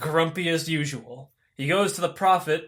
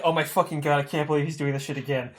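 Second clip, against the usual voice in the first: exasperated groan; 3 semitones lower, 4 dB quieter, faster than usual. Retold or imitated. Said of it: "Hades is just like".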